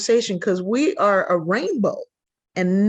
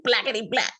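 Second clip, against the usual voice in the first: mock swooning; 2 semitones higher than usual. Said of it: "Even saying".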